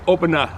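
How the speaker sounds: "opener" with the final r dropped, ending in "ah"; Boston pronunciation. Shown as a demonstration. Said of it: "in the Boston area, we say".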